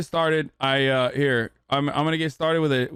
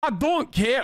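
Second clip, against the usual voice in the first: mock boomer; 4 semitones higher, slower than usual. Mock boomer dismissing data.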